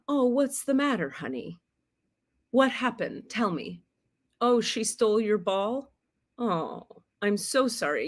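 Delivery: put-on soft, gentle comfort for a small child; soothing parent. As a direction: coo to a hurt toddler. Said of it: "if instead you say to a child".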